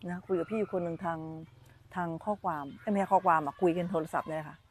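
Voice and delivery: usual speaking voice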